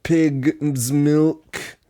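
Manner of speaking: Bill Cosby voice. Acted. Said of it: "you sound like Bill Cosby".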